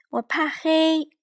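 high, slow, whispered cub voice; tiny bear cub whispering his fear; Little Bear whisper. A narrator's reading. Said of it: "小小熊说。".

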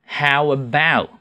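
slow "How about" with full ow sounds; drilling the ow. Shown as a demonstration. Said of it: "这个ow是比较难发音哈".

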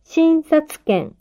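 slow, careful dictation; each word said slowly and clearly; dictating. Shown as a demonstration. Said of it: "書き取ってください".

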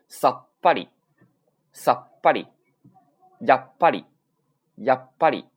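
さっぱり and やっぱり in two loud halves with a silent beat; controlled sokuon. Shown as a demonstration. Teacher drills controlling the sound, loud held stops. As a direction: punch さっ, hold, release ぱり. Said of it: "控制住啊".

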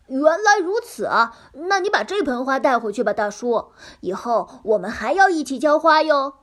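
cheerful piglet. Acted. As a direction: sound sweet and trusting.

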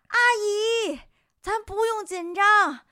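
loud doctor voice. Retold or imitated. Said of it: "那气沉丹田，大声". (气沉丹田大声喊)

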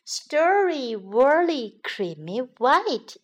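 sleepy, yawning words. Acted. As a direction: yawn through the words. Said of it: "she yawned".

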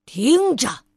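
loud angry bark; shouting. Acted. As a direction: demand attention by yelling. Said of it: "暴躁先生大嚷道".

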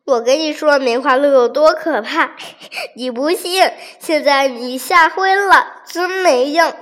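teasing laugh, lightly played; laughing at him. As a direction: tiger laughs at the fainted monkey. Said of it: "就笑他".

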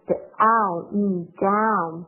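the ow of down opened wide and exaggerated. Shown as a demonstration. Teacher exaggerates the ow in down for students. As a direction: show the ow sound big. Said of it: "一定要夸张一点".

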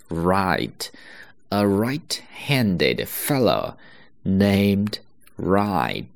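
right-handed fellow read slowly, every r clear; slow model. Shown as a demonstration. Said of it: "我们直接讲这个句子的发音啊". (慢速示范绕口令)

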